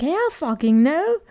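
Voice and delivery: slow, loud hell no; mock refusal. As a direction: throw it out as a flat refusal. Card figure flatly refuses.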